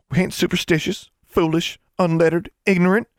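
high-pitched, building indignation; indignant protest. A narrator's reading. Constance defends Ozarkers to Alexandra, indignant.

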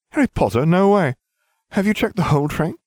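high, loud, gushing disbelief; feigned amazement. Acted. Harry fooling Malfoy about who is aboard, mock amazed. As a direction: play astonished, pitch leaping way up.

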